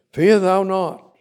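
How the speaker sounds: slow, high, loud proclamation; proclaimed slowly. Acted. Preacher commanding the flock not to fear, slow and loud. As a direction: draw out each word like a command.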